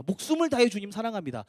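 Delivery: emphatic, eager pledge; all-out vow. Shown as a demonstration. Peter pledging his life to the Lord, wholehearted vow. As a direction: declare devotion without holding back. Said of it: "중간 없이 이렇게 달려야 베드로다운".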